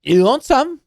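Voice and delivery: dwarf offering bread to the stranger, bad Scottish accent. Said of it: "we're gonna do a different dwarf".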